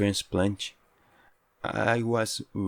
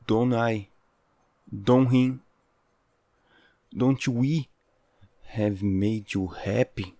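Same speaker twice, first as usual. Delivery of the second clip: desperate pleading; 4 semitones higher than usual. Acted. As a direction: beg with rising urgency. Pleading to be chosen.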